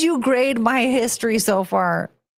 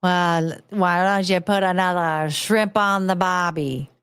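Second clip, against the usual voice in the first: slightly lowered mock-Aussie voice; attempted Australian accent; 3 semitones lower, slower than usual. Shown as a demonstration. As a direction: have a go at a broad Australian accent. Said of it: "do an Australian accent".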